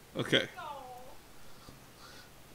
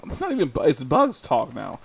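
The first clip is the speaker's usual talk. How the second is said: usual speaking voice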